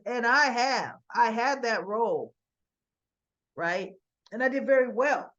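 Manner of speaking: loud, punched retold boast; emphatic self-assertion. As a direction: insist on your record, hitting key words loudly. Son boasts of past role, retold.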